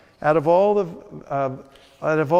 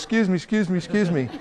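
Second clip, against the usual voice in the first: hammed-up pushier excuse me, laughing at the end; the worst kind of over-eager salesman; even more hyper; 4 semitones higher than usual. Shown as a demonstration. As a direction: overdo the pestering, mock desperate. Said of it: "Or even worse".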